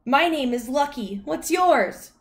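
high, loud, friendly dog voice; high-pitched chatty dog; Lucky the dog. A narrator's reading. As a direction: introduce yourself like an eager puppy. Dog introduces herself.

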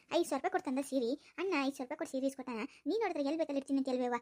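low, grumbling scold of a mother-in-law; nagging elder woman. Acted. Elder woman scolding the daughter-in-law about the saree, low grumbling nag.

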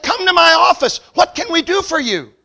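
high, loud eager hostess voice; fawning bank lady. Retold or imitated. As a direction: sweet-talk the big client. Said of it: "She said".

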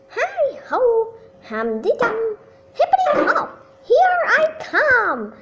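high sing-song holler. A narrator's reading. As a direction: call out gleefully uphill. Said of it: "Hannah hollered".

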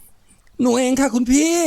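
squeezed tiny, sugary fake-girl voice; ดัดจริตเสียงแหลมหวาน. A narrator's reading. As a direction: pinch the voice high, slow and syrupy. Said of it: "เขาแกล้งดัดจริตบีบเสียงเสียจนมันเล็กแหลมและหวานเจ้ย". (บีบเสียงเล็กแหลมหวานเจี๊ยบ)

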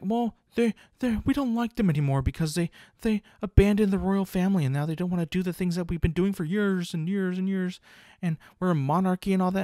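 mock critics. Imitating royal-family critics.

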